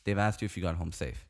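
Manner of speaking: low, soft landing of the point; pointed verdict. Retold or imitated. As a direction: drop your voice to drive it home. Landing the point on his friend.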